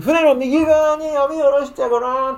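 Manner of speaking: high, coaxing suggestion; kind instruction. Acted. Jesus tells the disciples where to cast, high and coaxing. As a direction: gently urge them to try the right side. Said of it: "って言ったんですね".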